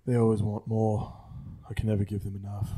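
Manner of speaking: lightly put-on English accent. Mock-English host signing off, lightly put-on English accent. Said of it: "I've just been talking like that".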